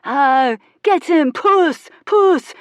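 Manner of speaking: high, loud cheering; cheerful shout. Acted. Onlooker cheering the cat in the fight, cheerful high shout. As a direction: cheer the cat on like at a boxing match. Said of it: "someone shouted cheerfully".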